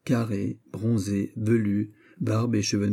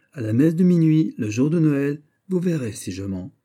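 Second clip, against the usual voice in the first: louder, higher, confident promise; bold declaration; 5 semitones higher, 4 dB louder than usual. Acted. Officer to the young girl, a bold confident promise. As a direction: announce it proudly.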